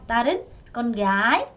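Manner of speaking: con gái said slowly, gái rising; drawn-out con gái with rising gái; slow teacher model of con gái; slow model word. Shown as a demonstration. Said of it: "다시".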